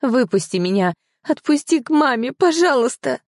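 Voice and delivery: begging plea. Acted. Captive girl begging to be let go.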